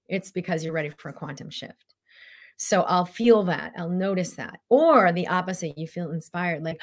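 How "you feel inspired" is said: normal talking voice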